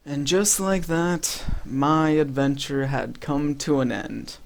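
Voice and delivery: slow, hushed dramatic narrator; mock-solemn narration. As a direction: narrate your own downfall gravely, with long pauses. Mock-solemn narration of his death.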